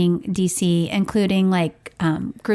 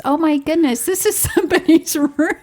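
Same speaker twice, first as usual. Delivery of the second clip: shocked discovery; 7 semitones higher than usual. Retold or imitated. Discovering a stranger's room.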